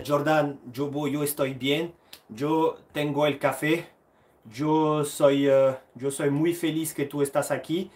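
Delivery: slow, deliberate French-speaker's Spanish accent. Real, not acted. Streamer replying to his buddy Jobo in Spanish, Spanish accent. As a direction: answer in careful Spanish with your own accent. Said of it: "mon accent espagnol te va bien".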